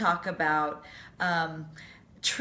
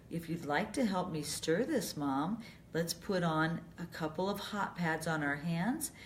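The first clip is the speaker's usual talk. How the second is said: softer, calm and gentle invitation; 4 dB quieter than usual. Shown as a demonstration. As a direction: coax mom softly and calmly. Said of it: "Very calmly say".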